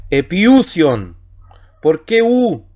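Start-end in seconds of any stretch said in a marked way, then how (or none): 0.1-1.2 "epiusion" drawn out slowly, falling at the end; slow Greek demo word. Shown as a demonstration. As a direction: stretch out "epiusion" syllable by syllable. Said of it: "Así que sería".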